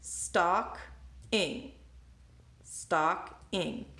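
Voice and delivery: stocking split into stock-ing; tapping syllables. Shown as a demonstration. Teacher to students, stocking tapped out. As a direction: tap out stocking beat by beat. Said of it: "I'll tap 'em out".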